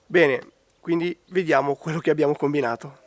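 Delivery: a real, croaky cold voice; hoarse from a cold. Real, not acted. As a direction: voice worn by a bad cold. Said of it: "Scusate la voce, ma ho preso un raffreddore".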